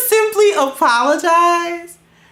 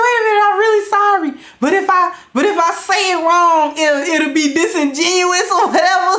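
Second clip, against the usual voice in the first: fretful self-talk; 3 semitones higher than usual. Retold or imitated. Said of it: "You're like".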